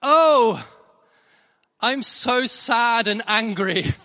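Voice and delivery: put-on loud, high, drawn-out child's wail; hammed-up tantrum shout, slow and pitched high; top of her voice. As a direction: imitate a daughter's dramatic outburst at full volume. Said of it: "the top of her voice".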